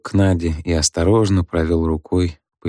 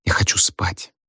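tired whisper. A narrator's reading. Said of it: "я устала".

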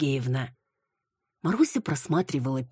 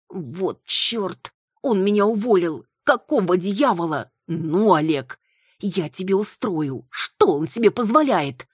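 louder, higher, outraged cries; indignant outburst; 5 semitones higher, 5 dB louder than usual. Acted. Marusya reading her firing letter, furious and indignant. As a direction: fume at the boss who fired you. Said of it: "дыхание прервалось от возмущения".

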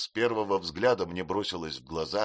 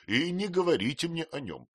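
higher, louder protesting nurse; insist, a touch huffy; indignant housemaid; 6 semitones higher, 3 dB louder than usual. A narrator's reading. Peggotty protesting, voiced higher.

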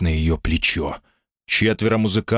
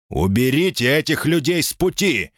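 higher, curt command; curt order over shoulder; 6 semitones higher than usual. A narrator's reading. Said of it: "бросил сержант через плечо".

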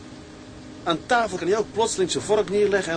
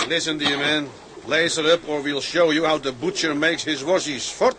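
louder, rough threat in English; threatening; 2 semitones lower, 4 dB louder than usual. Acted. Sailor threatens the tout in broken English, louder. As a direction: warn him off with menace.

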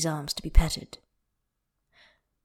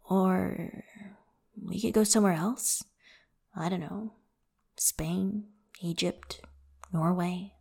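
thoughtful; 4 dB quieter than usual. A narrator's reading. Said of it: "Xie hums thoughtfully".

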